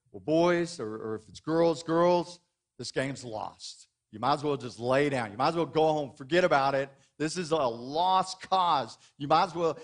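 lightly voiced coach telling the team it's over; defeatist coach. Pastor mimics a coach who quits at halftime, mildly glum. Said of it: "Does he come in and say".

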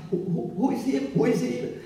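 lightly voiced questioner. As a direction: lightly act out someone asking who is there. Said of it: "He once was asking".

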